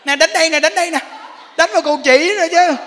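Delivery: wife goading husband to hit her; defiant wife. Retold or imitated. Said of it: "Bực chồng lên một cái nè".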